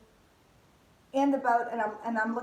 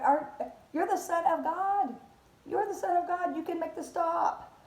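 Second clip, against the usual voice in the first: rising higher and louder into mock panic; a mild imitation of the frightened disciples building up; panicked disciples; 4 semitones higher, 3 dB louder than usual. Voicing the disciples crying to the sleeping Jesus, building panic. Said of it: "And they're going".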